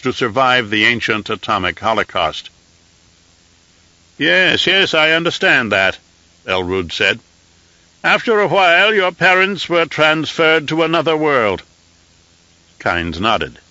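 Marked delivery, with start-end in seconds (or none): 4.2-6.0 high, thin voice of an aged emperor; an old ruler used to giving firm commands; reedy scratchy old voice. Acted. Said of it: "in a reedy, scratchy voice". 8.0-11.6 high, thin voice of an aged emperor; an old ruler used to giving firm commands; reedy scratchy old voice. Acted. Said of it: "in a reedy, scratchy voice".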